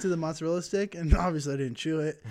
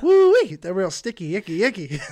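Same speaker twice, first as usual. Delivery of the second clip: hyped-up exclamation; 3 semitones higher, 9 dB louder than usual. Pretend. Joking about sticky grape stems.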